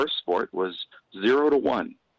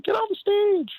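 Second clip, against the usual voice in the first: high mock yell from the crowd; heckler yelling. Heckling lady in front yells at the comic. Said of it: "starts yelling".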